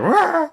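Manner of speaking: short high-pitched "wah" yell; imitated crazy scream. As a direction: mimic a wild outburst, loud and high. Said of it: "this one where you're like".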